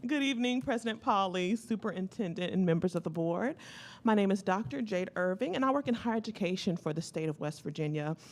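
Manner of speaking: out of breath. Real, not acted. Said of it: "if I sound out of breath, it's because I am".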